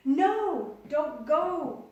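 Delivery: high, loud cry; the builder crying out high and loud as they go; desperate plea. Acted. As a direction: beg them not to leave. Builder begging them stay.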